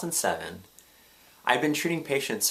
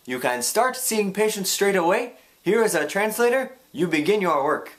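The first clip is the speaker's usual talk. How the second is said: imitating a thick Ugandan English accent, much higher and louder; 10 semitones higher, 5 dB louder than usual. Ugandan medical director welcoming the student, thick Ugandan English accent. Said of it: "in his thick Ugandan African English accent".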